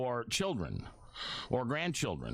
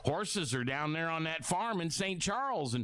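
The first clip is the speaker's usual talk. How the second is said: put-on Southern accent, pitched up; 4 semitones higher than usual. Radio host imitating an under-forty listener's comeback, in a Southern accent. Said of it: "I always go to that Southern accent".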